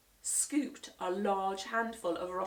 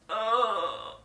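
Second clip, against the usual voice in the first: groaning; 5 dB louder than usual. A narrator's reading. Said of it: "groaned Mister Mossy".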